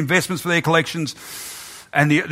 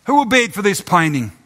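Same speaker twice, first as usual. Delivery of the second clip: raised auctioneer's call; 7 semitones higher, 3 dB louder than usual. Acted. Auctioneer keeps asking despite the crowd. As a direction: ask again, undeterred.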